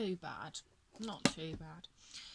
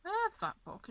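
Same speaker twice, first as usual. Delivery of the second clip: excited; 11 semitones higher than usual. Retold or imitated. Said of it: "And I said".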